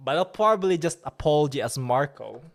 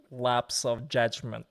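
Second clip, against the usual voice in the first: mock contrite; 4 dB quieter, slower than usual. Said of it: "You know those, like, sigh".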